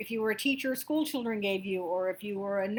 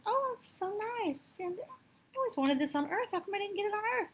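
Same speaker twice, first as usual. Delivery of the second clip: amazed man in heaven; 9 semitones higher, 3 dB quieter than usual. Retold or imitated. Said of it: "And the guy goes".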